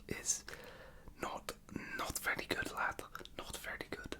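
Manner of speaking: whispered, jokey attempt at Scouse; Scouse accent. Shown as a demonstration. Mocking own accent to viewers, playful Scouse accent. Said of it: "My Scouse accent, as you can tell".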